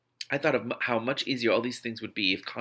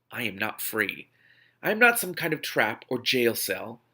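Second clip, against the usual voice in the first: angry. Acted. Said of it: "I said angrily".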